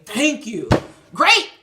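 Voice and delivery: loud, high, laughing God voice; a cackling, triumphant God shouting at her; hammed-up laughing God; God's voice, cackling. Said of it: "I hear God saying".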